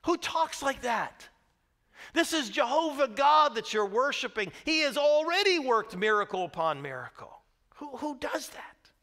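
high, loud disbelief; indignant rhetorical outrage; incredulous. Real, not acted. Preacher's indignant rhetorical questions.

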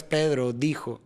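"Pedro dijo" in even beats, accenting PE and DI; first syllable of "Pedro" and "dijo" on the beat; rhythmic stress. Shown as a demonstration. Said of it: "ahí empieza ahí la rítmica".

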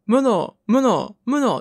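無能 said with the rising pitch of ルソー; 無能 like ルソー, pitch going up at the end; Rousseau intonation. Shown as a demonstration. Hero tries the robot's name with the pitch of ルソー. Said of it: "ジャンジャック・ルソーのイントネーションで発音してください".

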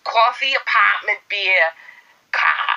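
exaggerated American vowels on a word list; American accent. Practising accent words for viewers, mock American. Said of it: "Someone said do American accents".

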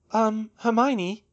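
high, slow, hesitant interjection; cutting in. A narrator's reading. Georgina cuts in on the couple, hesitant interruption. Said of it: "Georgina cut in".

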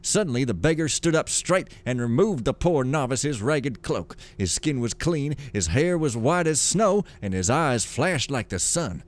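lively, sing-song storybook reading; story narration. A narrator's reading. Gamer reading lore aloud as a tale, storytelling voice. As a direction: read it like a grand old fable.

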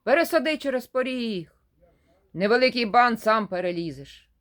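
bossy and loud, ordering; a hint of an imperious little old man; demanding. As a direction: demand it like you expect to be obeyed. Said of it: "той самий голос вимагає".

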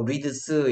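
"reads" as "reez", the D dropped; natural pronunciation. Shown as a demonstration. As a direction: run the end of "reads" into one Z sound. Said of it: "잘 알아들을 거야". ("reads"를 '리즈'로 자연스럽게 발음)

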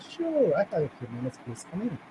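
retold meek, composed welcome; calm and humble. Worried employee letting the boss in, calm and humble. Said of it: "Calm myself and humble".

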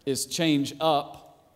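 change up stretched out slowly; drawn-out wordplay. Shown as a demonstration. Preacher drags out change up to make his point. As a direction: lean hard on change up for the wordplay. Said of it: "See what I'm doing there?".

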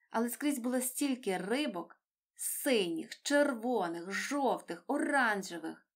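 ordinary delivery

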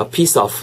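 "piece of" linked, ending in a light friction sound; lightly scraped f. Shown as a demonstration. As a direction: let the end of "of" scrape lightly. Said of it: "윗니로 아랫니 긁으면서". ("of" 끝을 살짝 긁어서)

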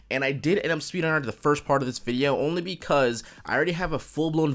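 groggy just-woke-up morning voice; sleepy morning voice, just out of bed. Real, not acted. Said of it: "I also have morning voice 'cause I just woke up".

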